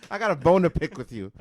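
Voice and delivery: high, loud shouted catchphrase; loud declaration. Shown as a demonstration. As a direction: proclaim the saying. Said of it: "I'm gonna bring back that saying".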